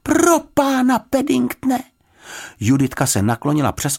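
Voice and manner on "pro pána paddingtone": high, loud cry of dismay; high horrified outburst; shocked exclamation. A narrator's reading. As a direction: exclaim in alarm, pitched very high. Girl finds bear nearly drowning.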